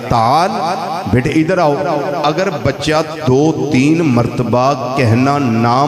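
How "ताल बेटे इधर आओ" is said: fond father calling his son over; lightly voiced tender father; loving call. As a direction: coax the child back kindly. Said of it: "बड़े प्यार से उसको कहेगा".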